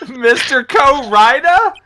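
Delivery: slow, baffled rising question; confused exasperated yell. Real, not acted. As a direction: call it out in total confusion. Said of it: "confusion and exasperation in the speaker's voice as he yelled".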